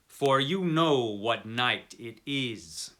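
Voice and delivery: slow, knowing hint from the hotel manager; smiling, lightly voiced; knowing smile. Hotel manager hinting to the traveller, slow and knowing. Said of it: "Here he smiled and added".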